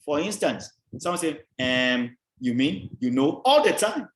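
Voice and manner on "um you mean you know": filler words strung out with a drawn "um"; verbal padding. Shown as a demonstration. Lecturer showing how people pad, imitated hesitant fillers. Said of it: "How does padding work?".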